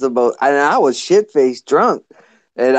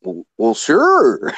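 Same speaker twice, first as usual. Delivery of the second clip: higher, hesitant then eager yes; eager Gary Gizzard; 3 semitones higher, slower than usual. Retold or imitated. Gizzard accepting the pizza, higher eager voice. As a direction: accept gladly after a pause. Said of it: "He's like".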